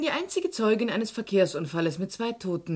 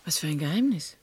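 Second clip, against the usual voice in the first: surprised whisper; 4 semitones lower than usual. Acted. Hushed reply to secret.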